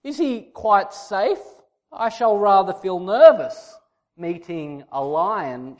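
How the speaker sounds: put-on nervous girl. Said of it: "She replies".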